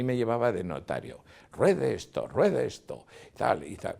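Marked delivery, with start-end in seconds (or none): 1.5-3.0 raised, louder imitation of a bossy minister; high, insistent falling orders; imposing order. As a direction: issue it as a repeated command. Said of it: "siempre con imposición".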